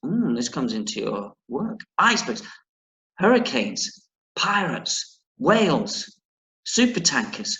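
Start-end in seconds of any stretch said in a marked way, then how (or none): 2.0-7.5 each danger weighted and set apart; doom and gloom list. Acted. Gran listing dangers to frighten the boy, doom-laden. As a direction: list them like grim warnings. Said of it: "full of doom and gloom".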